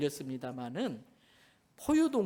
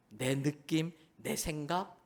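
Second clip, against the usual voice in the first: ordinary talk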